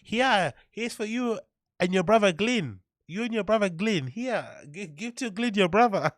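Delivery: high mock Asian mum accent; mum's accent. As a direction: hand out food in a put-on Asian mother accent. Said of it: "I can't do the accent".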